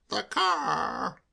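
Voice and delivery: breathless high croak; an out-of-breath croak. A narrator's reading. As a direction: gasp the words out, winded. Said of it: "croaked Soapy".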